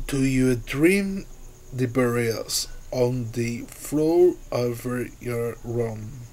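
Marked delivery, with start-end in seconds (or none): none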